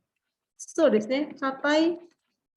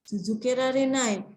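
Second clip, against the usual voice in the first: careful learner's pace. Shown as a demonstration. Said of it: "ngomongnya masih pelan-pelan".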